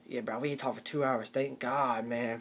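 low, soft relieved bro; relieved dude. Retold or imitated. Boyfriend telling his bro he's glad of the quiet, low relieved. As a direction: shrug off the silence, glad of it. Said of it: "the guy's like this".

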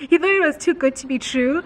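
said through a chuckle; laughing. Real, not acted. Vlogger retelling husband's disbelief to viewers, laughing. Repeats it straight after laughing.

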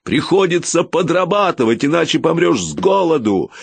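raging at the injustice; angry shout. A narrator's reading. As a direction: fling the hard truth at him. Continuing shout at inspector.

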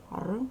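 Р as a short rolled consonant on its own; brief standalone Р for pupils; isolated consonant sound. Shown as a demonstration. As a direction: make only the sound of Р, "rr", not the letter name. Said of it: "приголосний".

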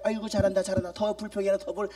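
빈정대며 투덜거리는 신자 흉내; 부드럽게 비꼬듯 중얼거리기; mock grumbling. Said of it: "의심하고 원망하고 불평하기를". (목사를 비꼬며 투덜대는 신자 흉내)

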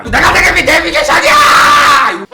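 high, furious full-out scream; exploding into a long, high-pitched yell; blowing her top. Retold or imitated. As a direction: scream it drawn out, lid blown off. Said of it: "뚜껑이 확 열리는 거야".

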